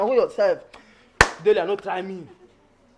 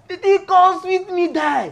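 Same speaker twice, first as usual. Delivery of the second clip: laughing; 9 semitones higher, 4 dB louder, slower than usual. Acted. Overcome by her dancing.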